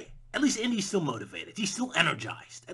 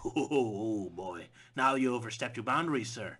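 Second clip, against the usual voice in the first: mock scandalized; 5 semitones lower than usual. Hollywood scolding a greedy hero, mock outrage. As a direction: play a prim scold.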